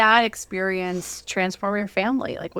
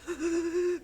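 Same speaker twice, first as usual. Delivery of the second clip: imitated gasp; 8 semitones higher, 8 dB quieter than usual. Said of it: "breathing fast".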